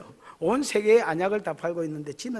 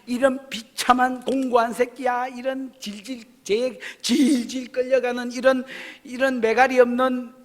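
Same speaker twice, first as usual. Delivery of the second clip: mock tirade, getting louder and slower; scolding rant; 6 semitones higher, 6 dB louder, slower than usual. Preacher voicing the Lord chewing out the church, a mock tirade. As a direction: tear into them like a rough Gyeongsang scolding. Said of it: "주님이 막 경상도 말로 하면 까는 중".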